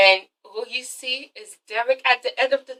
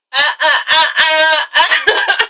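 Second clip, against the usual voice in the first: staccato fake sobs into a laugh; mock sobbing; 3 semitones higher, slower than usual. Fan playing a tearful couple, mock sobbing. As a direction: sob in short bursts, then laugh.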